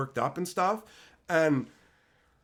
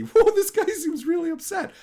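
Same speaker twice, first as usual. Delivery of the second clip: higher and louder, a sarcastic whoa; mock surprised; 13 semitones higher, 7 dB louder than usual. Streamer mocking an angry hater online, sarcastic and high. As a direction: fake concern, laughing at him inside.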